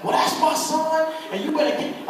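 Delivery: high, loud imitation of an indignant mother; mom getting buck. Mom confronting the nurse over her son's care, retold indignant outburst. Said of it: "my mom got buck on him".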